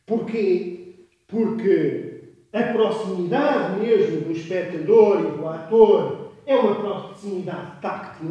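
loud, emphatic lecturing shout. Shown as a demonstration. Lecturer shouting to activate listeners' hearing, loud shouting. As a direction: project hard at the audience. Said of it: "eu pus-me aqui aos berros".

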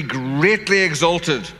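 "greatly exalted" slowly, leaning on "greatly"; slow, weighty stress on "greatly exalted"; exalting emphasis. Shown as a demonstration. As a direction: draw out "greatly", then let "exalted" fall. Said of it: "there's a threefold exaltation".

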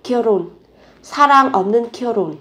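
결혼 with a very light h, linked as "gyeoron"; 결혼 run together as "gyeo-ron". Shown as a demonstration. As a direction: link the ㄹ onward in 결혼, h barely sounded. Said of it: "phụ âm hờ này các bạn phát âm rất là nhẹ".

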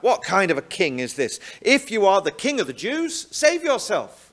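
jeering, rising to a high taunt; mocking. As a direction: sneer it like a mocking soldier. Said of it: "they mockingly say".

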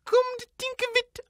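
ordinary delivery

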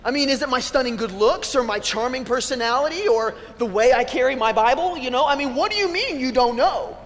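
hammed-up hurt pride; mock indignant. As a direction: protest in disbelief, playing it up. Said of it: "I had this other reaction".

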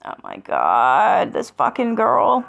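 exasperated groan. Real, not acted. Exasperated at the commenter.

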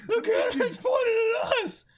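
high, loud, crying panic; panicked scream. Acted. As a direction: shriek at the loaded cannon. Cannon aimed at them.

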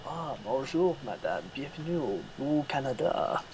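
a put-on Québécois French accent, lightly mocking; mock Québécois French phrase, like greeting a tourist. Playing a caricatured Quebec greeter, in mock Québécois French. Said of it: "the hillbilly version".

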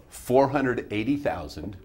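slow number dictation for a student writing; measured teacher's dictation. Shown as a demonstration. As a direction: dictate it slowly, group by group. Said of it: "say it again slower for you".

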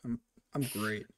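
mock sullen brush-off; pouty. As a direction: grumble it with a pout, retold. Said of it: "I go to class all pouty".

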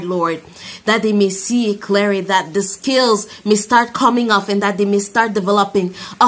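earnest spoken prayer voice. Real, not acted. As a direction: pray over the listeners. Leads a closing prayer.

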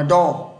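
"đo" with an open O vowel, for door; correct reading. Shown as a demonstration. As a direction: say "đo", neither ou nor oo. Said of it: "mà lại phải đọc là đo". (đọc "đo" với âm o mở)

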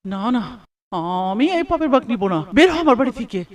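loud furious orders; angry shouting. Acted. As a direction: throw her out of the house. Husband drives out wife angrily. (রাগে চেঁচিয়ে)

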